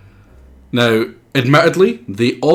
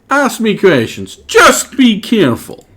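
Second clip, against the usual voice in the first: strained voice; 10 semitones higher, 4 dB louder than usual. Acted. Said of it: "This is really hurting my voice".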